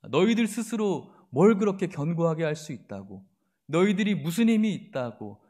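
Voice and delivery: lightly voiced sneer at their weakness; a hint of mocking contempt; mild scornful jeer. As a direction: belittle them, half-acted. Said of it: "비난하고 있는 것이죠".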